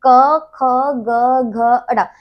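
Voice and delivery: क, ख, ग, घ, अड़ा spaced out, loud first sound; teacher modelling the क row for students to copy; reciting consonants. Shown as a demonstration. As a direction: sound out each throat letter clearly. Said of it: "आप बोलकर देखेंगे ना".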